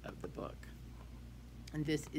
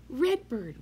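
call out; 10 semitones higher, 9 dB louder than usual. Shown as a demonstration.

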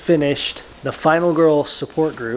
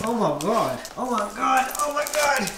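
rising higher each time; building excitement; 9 semitones higher, 3 dB quieter than usual. Real, not acted. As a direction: pitch climbs with each repeat.

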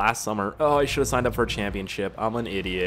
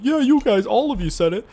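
mock agreement; 11 semitones higher, 5 dB louder than usual. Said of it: "I'm like".

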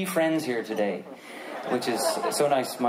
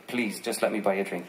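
apologetic pleading. Retold or imitated. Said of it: "And he said".

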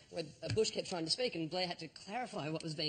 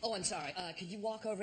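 imitating an apologetic, courteous officer; deferential, careful polite request; 3 semitones higher than usual. Airport guard asking the traveller to walk over, polite. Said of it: "And he was so polite".

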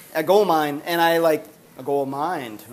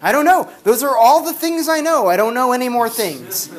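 exasperated dad; 3 semitones higher, 3 dB louder than usual. Retold or imitated. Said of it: "he's just like".

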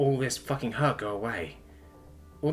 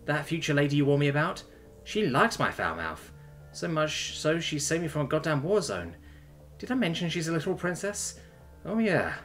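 mildly teasing through emotion, pitched up; a touch of tearful amusement; emotional, tearful laugh; 6 semitones higher than usual. A narrator's reading. Daughter teasing her absent dad, tearfully amused. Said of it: "with an emotional, tear-filled laugh".

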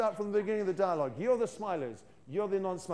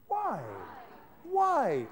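wrong why; 2 semitones higher than usual. Shown as a demonstration. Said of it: "No, sorry, no, I've got it wrong".

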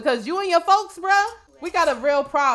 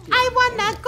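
high whine; 11 semitones higher, 5 dB louder than usual. Acted. Whining to go home.

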